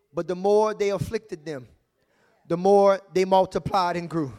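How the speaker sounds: scripture reading. Shown as a demonstration. Pastor reads Exodus to congregation, steady and measured. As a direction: reads the verse out to the church. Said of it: "The Bible says in Exodus".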